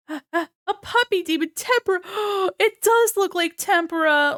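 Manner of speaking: high squeal of adoration, with gasps; delighted gushing. Real, not acted. Streamer reacting to a puppy demon, delighted gushing. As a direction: melt over something unbearably cute.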